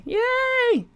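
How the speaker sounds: high squealed yay; excited cheer. Real, not acted. Cheering viewer in live chat.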